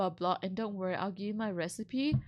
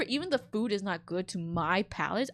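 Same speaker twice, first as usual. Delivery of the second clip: ordinary talk, nothing marked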